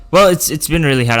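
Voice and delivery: ordinary delivery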